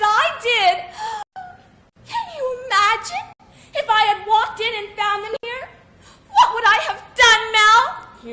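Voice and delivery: high, trembling, half-laughing panic; shaken, near tears. Acted. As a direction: gasp and picture the horror. Wife shaken imagining burglars.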